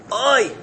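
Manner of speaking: high acted "ay" of anguish; groaning sigh. Person groans from the heart, high anguished cry. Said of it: "Gives out a krechs, a sigh".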